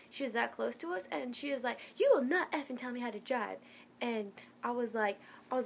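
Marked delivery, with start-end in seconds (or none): 2.0-3.6 mildly heated imitation of the woman; mock indignant, emphatic retort; retold angry order. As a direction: imitate her telling someone off. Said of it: "everybody was yelling".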